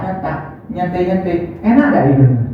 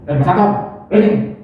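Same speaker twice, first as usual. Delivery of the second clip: offhand call. Shown as a demonstration. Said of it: "Masa pacar mau ngono?".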